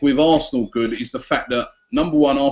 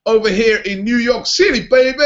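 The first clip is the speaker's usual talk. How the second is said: put-on New York accent; 6 semitones higher than usual. Presenter hamming a New York accent for the fans. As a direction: sign off like a brash New Yorker, in a New York accent. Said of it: "He's even got me doing the accent".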